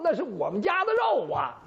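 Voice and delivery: high, dismayed cry on 肉 falling away; shocked realisation. Acted. Mother-in-law realising the stolen meat was hers, dismayed cry. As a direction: blurt it out as the truth dawns.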